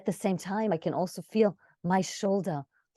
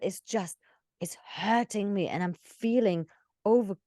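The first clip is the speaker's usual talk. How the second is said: whispered, hurting; pained whisper; 3 semitones higher than usual. Shown as a demonstration. Coach demonstrating a story moment, pained whisper. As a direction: breathe the pain out in a whisper.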